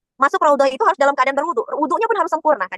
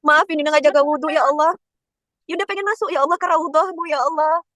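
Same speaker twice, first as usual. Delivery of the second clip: tearful prayer; 2 semitones higher than usual. Retold or imitated. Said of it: "Itu Yunda nangis, serius".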